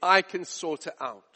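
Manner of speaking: lightly voiced husband brushing off a problem; low, offhand reassurance, lightly acted; dismissive husband. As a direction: play a man sure he can fix it. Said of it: "I can just see him walking around the house".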